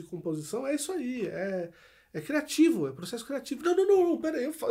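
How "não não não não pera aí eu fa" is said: high, loud burst of no's; rapid-fire, high-pitched objection; urgent interruption. Acted. Acts out composer interrupting with new idea.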